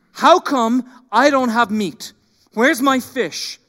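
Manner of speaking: mock-selfish complainer asking for his fish; whiny demand. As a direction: drag it out like a sulky child. Voicing selfish grumbling.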